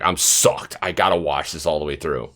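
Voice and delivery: low, soft aside; imitated hooked viewer. Host voicing a hooked viewer, low and soft. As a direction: voice a hooked viewer under your breath. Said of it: "where you're just like".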